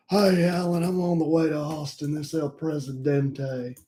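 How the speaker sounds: a hint of a swaggering boss; El Presidente voice. El Presidente calling Alan about sushi, lightly voiced. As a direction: boss man inviting everyone, puffed up.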